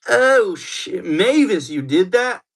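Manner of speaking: sudden high stunned outburst; shocked gasp. Real, not acted. Streamer hearing shocking news about Mavis, stunned and loud. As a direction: react like the gossip just dropped.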